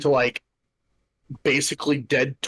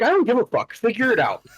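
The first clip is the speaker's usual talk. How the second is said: higher, heated mock rant at the office; retold angry yelling; 5 semitones higher than usual. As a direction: replay the fury, pitch up at the start. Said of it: "I was yelling at this bitch".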